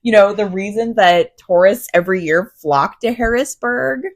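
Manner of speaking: slow, drawn-out tongue-in-cheek gushing; feigned awe, stretching the praise; mock-grand praise. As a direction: sell it like a joke tourist brochure, slowly. Mock praise of Harrisburg, listener laughs.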